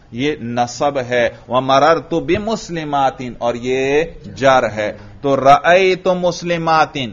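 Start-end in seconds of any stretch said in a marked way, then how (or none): 5.4-7.1 مسلماتن ending in a clear "-tin"; kasra ending. Shown as a demonstration. Teacher showing students the case ending, مسلماتن said with final "-in". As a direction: read مسلماتن slowly with an i in the final syllable. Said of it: "میں کسرہ پڑھ رہا ہوں".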